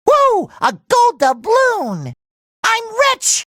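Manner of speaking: high-pitched elated exclamation; elated cry. Acted. Hero finding a gold doubloon, high and elated. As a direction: squeal it with delight.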